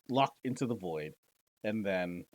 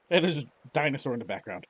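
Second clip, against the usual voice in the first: louder, quicker, higher burst of surprise; amused surprise; 6 semitones higher, 8 dB louder, faster than usual. Real, not acted. Streamer spotting a dinosaur on screen, surprised. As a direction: blurt it out, tickled.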